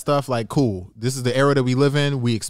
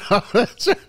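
slow words through a laugh; can barely hold the laugh in; stifled giggle, slowed down; fighting back laughter; 9 semitones higher, much slower than usual. Real, not acted. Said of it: "I'm trying not to laugh".

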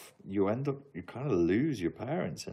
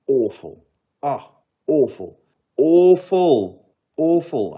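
loud, high, drawn-out exclamations; emphatic disgust; 7 semitones higher, 12 dB louder, slower than usual. Real, not acted. Streamer condemning Bran Stark's storyline, in loud exasperation. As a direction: hammer the word louder and higher. Vehement verdict on a TV ending.

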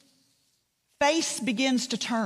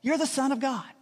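sudden higher-pitched exclamation; blurted out; 3 semitones higher than usual. Retold or imitated. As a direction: blurt it out as impulsive Peter. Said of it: "blurts out".

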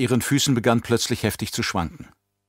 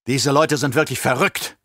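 angry snort; 3 semitones higher than usual. Acted. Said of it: "schnaufte der Imperator wütend".

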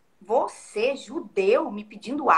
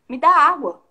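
firm, louder command, not a request; commanding order; 3 semitones higher, 7 dB louder than usual. Retold or imitated. Jesus demanding water from the woman at the well, commanding. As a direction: give it as an order, not a question. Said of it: "não é aquele tom de".

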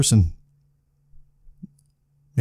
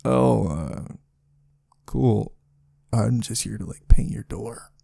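softer, offhand mock painter; mock painter reply; 4 dB quieter, slower than usual. Imagining the door painter's baffled reply, offhand and soft. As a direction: shrug it off like the puzzled painter. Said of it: "what's he gonna do?".

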